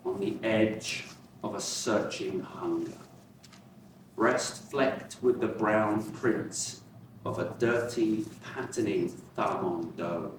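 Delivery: measured recital with long pauses between lines; poetry reading. Acted. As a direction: let each line of the poem hang before the next. Reads own poem aloud.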